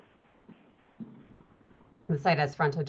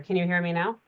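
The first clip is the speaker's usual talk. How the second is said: raised voice to be heard; speaking louder; 4 dB louder than usual. Real, not acted. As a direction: push the volume up. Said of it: "I was trying to speak louder".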